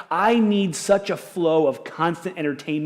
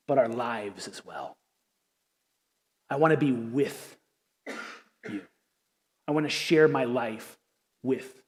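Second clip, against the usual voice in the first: tender reading of Paul. Acted. Pastor reading Paul's letter to his church, tender. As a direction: read it like a love letter to friends. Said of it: "Listen to how he talks to them".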